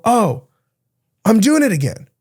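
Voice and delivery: a high, bright "oh" of catching yourself; lightly startled self-awareness; sudden realization. Pretend.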